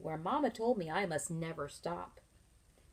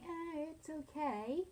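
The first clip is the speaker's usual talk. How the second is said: high, slow, drawn-out shrug of a voice; unimpressed; 10 semitones higher, slower than usual. Retold or imitated. Teacher showing how someone shrugs off a thing, unimpressed. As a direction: act out mild indifference. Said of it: "someone else might think".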